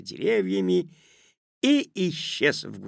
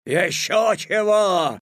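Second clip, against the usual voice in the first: loud, slow, raised wolfish retort; rude Wolf; 8 semitones higher, 7 dB louder, slower than usual. A narrator's reading. Wolf refusing Petya on the run, rude loud retort. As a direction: throw it back rudely. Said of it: "невежливо буркнул Волк на бегу".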